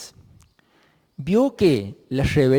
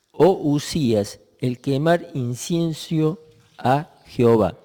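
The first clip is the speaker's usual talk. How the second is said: lectura bíblica solemne, algo pausada; solemn scripture reading; 3 dB louder than usual. Acted. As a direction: lee el pasaje como palabra sagrada. Reads scripture aloud. (lectura bíblica en voz de predicador)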